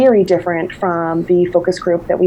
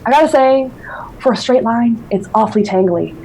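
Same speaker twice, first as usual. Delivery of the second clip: put-on lightly done Newfoundland accent, a bit higher; Newfoundland bayman accent; 3 semitones higher than usual. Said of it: "I'm doing my accent right now".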